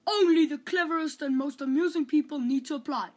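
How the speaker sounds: royal herald. Acted. Royal cabbage announcing to the whole country, proclaiming. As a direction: cry it out like a town crier.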